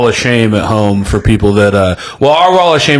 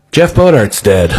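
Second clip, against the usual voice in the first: slow, grave announcement; imitating a solemn friend, slowly; very serious; slower than usual. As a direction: break the bad news with deadpan solemnity. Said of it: "in a very serious voice goes".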